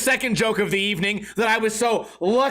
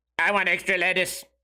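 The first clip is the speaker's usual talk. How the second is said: weird robotic voice, much lower; 4 semitones lower than usual. Retelling a man asking a woman for more lettuce, weird robotic voice. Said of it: "it's a weird robotic voice like this".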